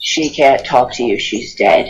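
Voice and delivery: very low, darkest deep tone. Retelling the voice heard answering the speaker's screams, very dark deep voice. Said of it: "I hear the most darkest, deep voice say".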